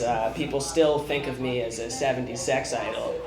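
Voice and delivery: cool, trailing Goldblum drift; Jeff Goldblum impression. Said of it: "let's do Jeff Goldblum".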